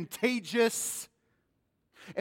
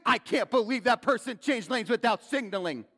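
sing-song; 6 semitones higher, 6 dB louder than usual. Acted. Mocking road-rage driver.

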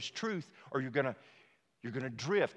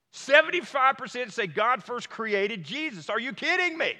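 high, loud, slowed outrage; outraged repeat; 11 semitones higher, 10 dB louder than usual. Real, not acted. Pastor to congregation, repeating the stat in loud outrage. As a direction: hammer the statistic in disbelief.

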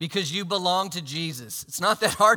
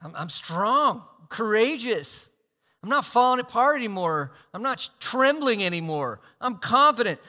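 growing louder, rising conviction; confident declaration; 4 semitones higher, 5 dB louder than usual. Retold or imitated. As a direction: build into a bold claim. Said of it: "you could confidently say".

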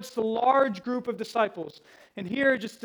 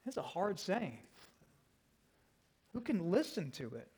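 quiet echo; 2 semitones lower, 8 dB quieter than usual. Shown as a demonstration. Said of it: "what's their response to this".

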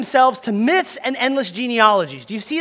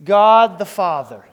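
slow emphatic; 3 semitones lower, 5 dB louder, slower than usual. Shown as a demonstration. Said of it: "on the count of three".

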